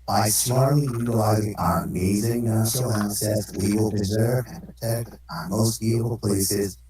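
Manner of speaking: voice changer. Pretend. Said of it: "voice changer for Donald Trump".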